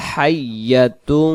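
হাইয়াতুন with an airy, rushing initial "h"; deep throat H. Shown as a demonstration. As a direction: chant হাইয়াতুন, breath rushing on the H. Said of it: "প্রথম অক্ষরটা লম্বা হা".

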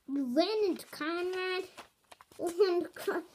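can't believe what she just heard; alarmed double-take; shocked. Acted. Shocked question about Conrad.

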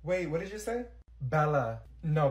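usual speaking voice

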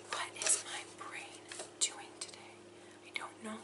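whispered aside to herself; whisper, baffled at yourself; hushed bewildered whisper; flustered whisper. Real, not acted.

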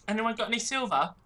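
high-pitched pleading beggar; playful beggar. Acted. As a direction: beg like a cheeky street urchin. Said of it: "choosiest beggar I've ever seen".

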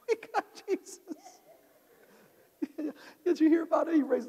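a disciple bragging to the townsfolk in a put-on high voice; boastful disciple. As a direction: crow it like a cocky kid.

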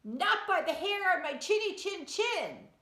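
high, squeaky little pig. A narrator's reading. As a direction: answer like a scared little pig. Pig answers the wolf.

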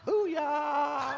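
high, drawn-out whoop; long high victory yell; triumphant shout. Acted. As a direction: crow it like you scored the point. Triumphant comeback in the skit.

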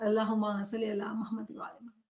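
fast, breathless whispered blessing; whispered salawat. Real, not acted. Teacher joins the class salawat in a quick whisper. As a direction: rattle off the prayer under your breath. Recites salawat after calling for it.

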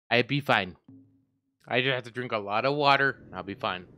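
slurred tipsy reassurance. Real, not acted. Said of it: "Your doggo boy is drunk".

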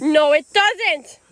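slow, whiny fake sob; mock crying. Sister begging him to drop the deer, mock crying. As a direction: stretch the no out tearfully. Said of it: "second denial crying".

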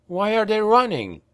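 put-on baffled young voice; confounded. A narrator's reading. Franz confused.

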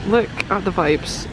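slowed-down LOOK AT THE VIBES; deliberate, spaced-out repeat; slow emphasis. Real, not acted. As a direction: draw out each word for effect. Repeats the line, slowing down.

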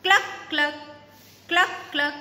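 clucking like a hen. Shown as a demonstration. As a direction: cluck it out like a chicken. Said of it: "A hen says".

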